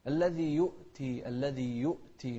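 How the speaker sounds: slow يؤتي with a clean glottal stop after "yu"; clear hamza. Shown as a demonstration. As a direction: cut يؤتي sharply at the hamza. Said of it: "نوضح الهمزة في كلمة يؤتي".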